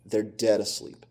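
"dead" weighted, soft and slightly low; hushed, deliberate emphasis on "dead"; stress on dead. Real, not acted. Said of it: "I emphasize the word dead".

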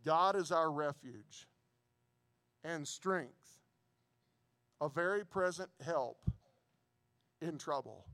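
slow, deliberate scripture reading. Shown as a demonstration. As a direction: read it slowly so every word lands. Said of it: "so I'm gonna read slowly".

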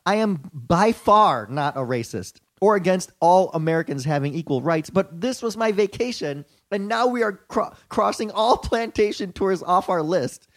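lightly voiced white-girl reviewer, punched words. Reading a tourist's plantation review to co-hosts, lightly put-on white girl. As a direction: read the complaint as a mock white girl. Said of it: "in my white girl vo-, voice".

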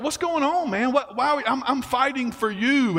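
put-on a young man who can't believe he's attacked; baffled David. David dodging Saul's spears.

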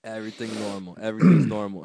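low, hushed mock reassurance; soothing mom. Mom to her screaming son on the plane, low soothing murmur.

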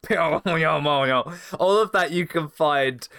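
slow, drawn-out menacing rasp; Jake the Snake impression. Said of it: "my Jake the Snake impression".

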